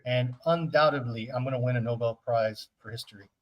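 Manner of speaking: breathless after a long rant; out of breath. Real, not acted. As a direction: talk while catching breath. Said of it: "I'm out of breath".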